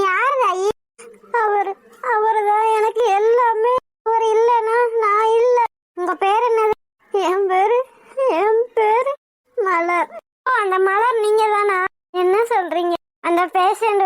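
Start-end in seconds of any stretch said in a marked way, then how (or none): 1.4-5.6 tearful plea through sobs; crying. Acted. Wife tells the nurse through tears. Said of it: "அழுகாத தாயி". 7.1-10.1 halting name through sobs; crying. Acted. Wife gives her name to the nurse, crying. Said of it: "அழுகாத தாயி".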